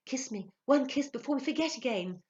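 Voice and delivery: high, impassioned entreaty; fervent lover's appeal; passionate plea. A narrator's reading. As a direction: beg for a kiss with ardour. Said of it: "sighed a laughing, passionate voice".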